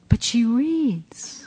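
bleating. Retold or imitated. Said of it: "he bleats".

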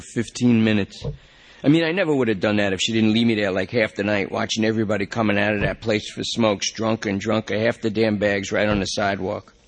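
a strung-out suspect swearing he panicked; junkie Lester pleading. Acted. Lester worries about girlfriend.

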